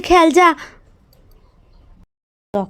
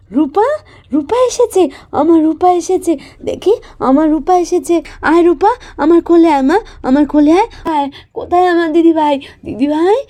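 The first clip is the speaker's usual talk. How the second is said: overjoyed mother; 4 semitones higher than usual. Acted. Mother overjoyed at daughter's return.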